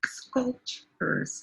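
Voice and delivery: "Sculptures" drawn out softly, sound by sound; pronunciation model. Shown as a demonstration. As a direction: softly stretch "Sculptures" for a learner to copy. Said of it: "how do we pronounce this?".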